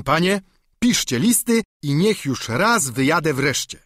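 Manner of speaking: lightly voiced eager peasant squire; simple squire pleading with his master; Sancho the squire.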